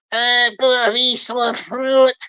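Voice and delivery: slow, drawn-out fake Louisiana accent; put-on Louisiana accent. Barry excusing his odd talk, in a put-on Louisiana drawl. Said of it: "speak with his American Louisiana accent".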